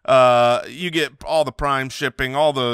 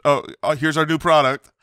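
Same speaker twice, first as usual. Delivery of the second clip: higher, louder mock launch announcement breaking into laughter; mocking rant; 6 semitones higher, 4 dB louder than usual. Fed-up fan mocking Apple's new product, derisive rant. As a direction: scoff at it with exaggerated excitement.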